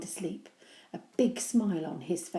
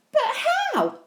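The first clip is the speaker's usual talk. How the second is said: insistent; 9 dB louder than usual. Acted. Henry insists.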